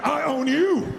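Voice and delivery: said like you mean it. Shown as a demonstration. Speaker urging the crowd to mean it, forceful. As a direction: claim it, mean every word. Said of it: "say it like you mean it".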